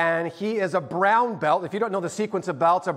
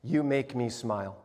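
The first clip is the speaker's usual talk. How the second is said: soft, lower reading of the card; tender reading; 6 semitones lower, 6 dB quieter than usual. Retold or imitated. Pastor reading a child's card, softly tender. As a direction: read it gently like a treasure. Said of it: "the inside is this".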